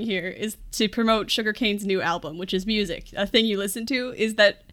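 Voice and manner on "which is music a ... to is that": normal talking voice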